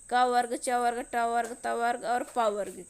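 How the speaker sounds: clear, loud listing of letter groups; loud demo. Shown as a demonstration. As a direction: call the groups out to the class. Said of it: "teacher lists letter groups".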